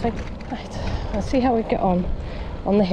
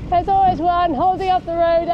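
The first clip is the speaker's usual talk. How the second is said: exasperated; 9 semitones higher, 4 dB louder than usual. Real, not acted. Stuck behind a slow vehicle.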